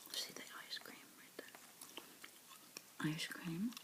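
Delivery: usual speaking voice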